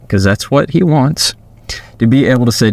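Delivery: usual speaking voice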